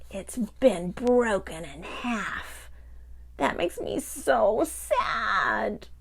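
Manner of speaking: slow, sad little puppy voice; heartbroken puppy. Acted. Pocket Puppy showing Grandma his torn heart, slow and sad. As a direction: drag the words out, heartbroken.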